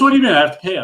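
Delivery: acted-out incredulous objection; retold indignant protest. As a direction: protest the fine as the offended player. Retold argument over paying a fine.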